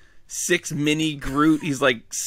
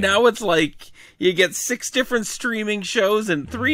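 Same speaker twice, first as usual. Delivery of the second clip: lightly voiced grumpy old man, higher; old man impression; 6 semitones higher than usual. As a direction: grumble like a cranky grandpa. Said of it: "that's my old man impression".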